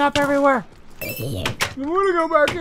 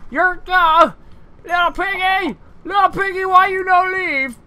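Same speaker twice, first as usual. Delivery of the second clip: cooing at pig; 8 semitones higher than usual. Acted.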